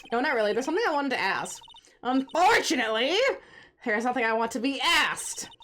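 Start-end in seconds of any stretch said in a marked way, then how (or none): 2.0-5.5 reading her lines with a touch of spite; a mild sneering witness voice; lightly voiced Miss May.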